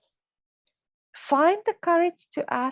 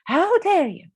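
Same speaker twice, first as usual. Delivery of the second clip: higher and louder mock indignant snap; retold angry outburst; 9 semitones higher, 8 dB louder than usual. Woman replaying her old reaction to a dish remark, mock indignant. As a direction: throw back a hammed-up offended retort. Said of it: "I would have got really angry and say".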